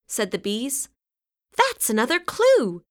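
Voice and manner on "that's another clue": much higher excited shout. A narrator's reading. Sam to Violet finding a clue, excited high shout. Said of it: "shouted Sam".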